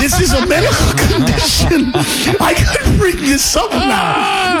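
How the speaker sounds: high, laughing mock realization; delighted inner thought, breaking into laughs. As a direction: giggle through the thought, slowing at the end. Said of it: "I'm like".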